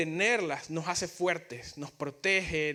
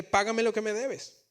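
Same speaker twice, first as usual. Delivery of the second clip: a higher, forceful mock demand; choking demand; 4 semitones higher, 3 dB louder than usual. The servant throttling his coworker for the debt, forceful. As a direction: squeeze the words out while choking him. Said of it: "que lo ahogaba".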